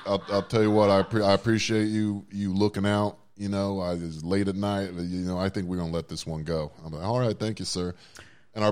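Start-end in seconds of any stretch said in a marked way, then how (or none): 0.1-6.7 put-on louder, easygoing Southern accent; a good-old-boy Southern accent on the phone. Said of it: "a Southern accent". 7.0-7.9 put-on a good-old-boy Southern accent on the phone. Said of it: "a Southern accent".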